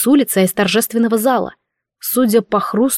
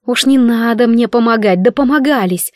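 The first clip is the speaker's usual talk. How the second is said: grumbling. Acted. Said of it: "проворчала я в мыслях".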